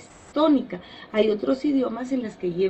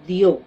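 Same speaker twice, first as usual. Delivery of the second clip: "dio" set apart and hit louder; stressed syllable; 4 semitones lower, 6 dB louder than usual. Shown as a demonstration. Teacher pointing out the strongest syllable of acudió, "dio" stressed and loud. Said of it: "la sílaba más fuerte".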